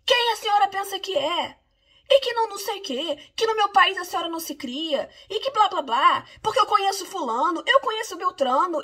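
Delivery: aggressive man mocked. Man jabbing a finger at her face, mock-aggressive rant. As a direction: ham up the finger-pointing bully. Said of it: "e diz assim".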